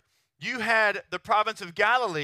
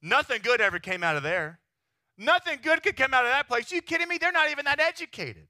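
mock the backwoods preacher with growing disdain; lightly voiced snobby townsfolk scoffing; scornful crowd. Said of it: "They're all looking at him like".

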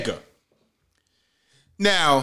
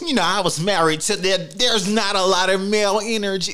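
lightly mocking white-voice imitation; slightly raised, teasing proper-speech impression; 3 semitones higher than usual. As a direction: mimic him putting on a proper white voice. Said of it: "do y'all hear this nigga's white voice".

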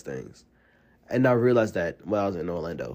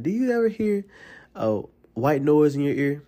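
mysterious psychic voice; 5 semitones higher than usual. Retold or imitated. Retelling a psychic's eerie question.

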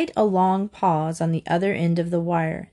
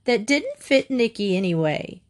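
high, slow, wailing mock sob; hammed-up tearful complaint; sobbed; 5 semitones higher than usual. A narrator's reading. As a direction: whine it out as if crying. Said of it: "she sobbed".

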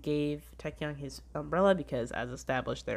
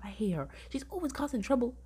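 whispered hate; 8 semitones higher than usual. Real, not acted. Ranting about hated character.

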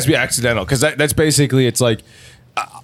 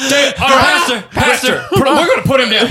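high, urgent calling out; hammed-up panic, pitched way up; frantic appeal; 9 semitones higher than usual. Calling the pastor to help stop a fight, frantic.

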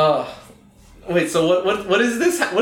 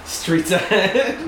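laughing; 5 semitones higher, much slower than usual. Real, not acted. Echoing the catchphrase, laughing.

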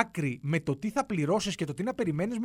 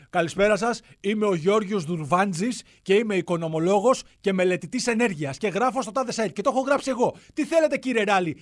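offended expert caller; 4 dB louder than usual. Retold or imitated. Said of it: "να μου πει".

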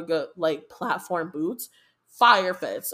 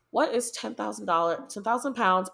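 usual speaking voice

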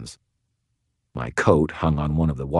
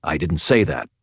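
ordinary delivery

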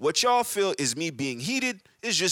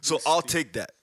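laughing; 5 semitones higher, slower than usual. Real, not acted. Laughing off being called uncool.

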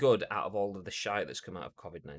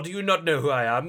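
loud, higher, outraged "not" as a diva; mock entitled celebrity; 6 semitones higher, 10 dB louder than usual. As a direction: demand recognition like a pompous star. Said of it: "So I'm like".

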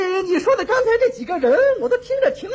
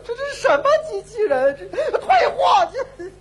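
mock tearful complaint. Laughing-crying complaint to robot.

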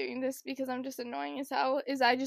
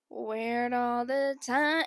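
dreamy drawl; much slower than usual. Retold or imitated. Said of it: "I'd be like".

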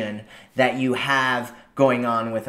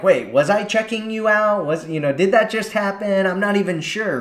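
confused disbelief; 7 semitones higher than usual. Retold or imitated. Confused man unsure he looked.

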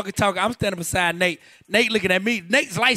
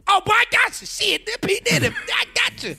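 much higher, eager fan squeal; starstruck excitement; 13 semitones higher than usual. Retold or imitated. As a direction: gush like a fan meeting a hero. Own starstruck reply to Diddy.

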